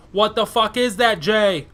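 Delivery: tipsy, loud and giggly. Real, not acted. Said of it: "I'm a little tipsy".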